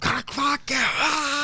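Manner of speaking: high, strained yell at the sky; mock furious outburst at a stuck gate; cursing God in a rage. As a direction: explode at the gate like a raging grandfather. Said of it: "he'd curse God".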